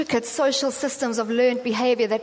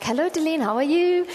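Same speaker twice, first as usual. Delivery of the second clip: put-on higher, lilting Indian-accented greeting; 4 semitones higher than usual. Woman caller greeting Deline by phone, imitated Indian accent. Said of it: "a woman on the line with an Indian accent".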